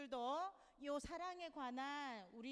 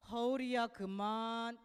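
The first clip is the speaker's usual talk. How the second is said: restrained scolding; 7 dB louder, slower than usual. Retold or imitated. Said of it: "화가 나서 나에게 화를 낼 것 같으면".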